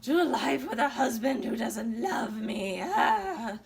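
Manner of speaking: high, whiny sing-song lament into a fake sob; mock wailing. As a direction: ham up a wife's tragic despair. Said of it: "she's like".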